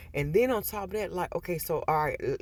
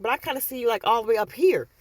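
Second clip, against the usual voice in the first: much higher put-on coworker voice; imitating coworker; 6 semitones higher, 5 dB louder, faster than usual. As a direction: quote her in a high light voice. Quoting coworker in high voice.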